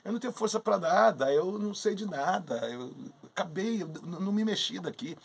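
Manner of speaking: lightly feigned helpless innocence; cynical innocence. Acted. Newborn Hermes insisting to Jupiter he never moved, cynically innocent. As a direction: play the innocent, a touch hammed-up. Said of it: "Muito cínico".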